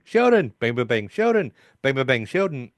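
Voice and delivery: calling through the door. Retold or imitated. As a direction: yell his name through the door. Penny banging on the door, calling.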